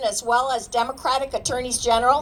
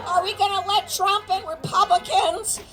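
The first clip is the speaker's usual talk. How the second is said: raised rallying call to the crowd; 4 semitones higher than usual. Real, not acted. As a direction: shout each question at the crowd. Speaker leads crowd call-and-response.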